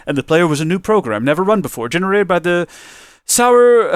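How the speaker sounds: breathless from reading aloud; out of breath. Real, not acted. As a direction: voice running out of air. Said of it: "I'm running out of breath".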